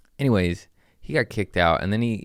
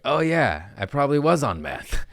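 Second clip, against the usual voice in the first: sheepish heckler; 5 semitones higher than usual. Retold or imitated. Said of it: "he's like".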